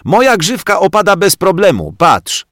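put-on boy showing off his fringe; boastful boy. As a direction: brag cheekily.

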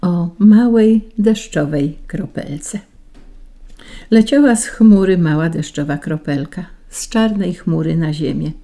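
ordinary delivery, nothing marked

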